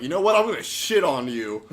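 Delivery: loud, high-pitched mock outburst; brash kid outburst. Young kid telling off dad, brash and loud. Acted retelling of cursing as a kid.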